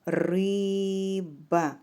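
риба drawn out as ри-ба; two separate beats in риба, long ри; syllable by syllable. Shown as a demonstration. Teacher splits word into syllables.

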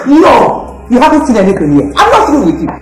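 raging, shouting curses at him; furious cursing. Acted. Woman cursing her enemy Emmanuel, furious shouting. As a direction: spit every curse at the man who beat her.

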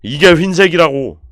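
높고 크게 우기기; 보란 듯이 크게 외치기; 답답한 강변. Real, not acted. Insists again that this is white. (목청 높여 강조)

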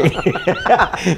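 sudden high burst of laughter; hearty laugh. Real, not acted. Laughing at his own joke.

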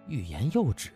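plain reading voice

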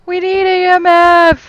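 loud, slow, urgent call; urgent shout. Real, not acted. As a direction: call it out to the team.

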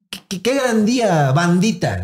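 chirpy corporate ad voice, lightly put on; hammed-up influencer hello; mock cheerful scripted greeting. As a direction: read it like a cheesy brand script. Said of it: "Así escrita".

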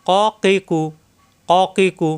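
"ক কি কু" thick, from the tongue root; heavy qaf syllables. Shown as a demonstration. Teacher drilling students, "ক কি কু" heavy and rounded. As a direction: say "ক কি কু" with a full back k, no open aa. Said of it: "মোটা হবে".

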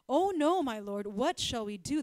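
a frightened servant shouting for his master; panicked servant. Acted. Servant to the prophet Elisha, alarmed loud cry. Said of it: "the servant asked".

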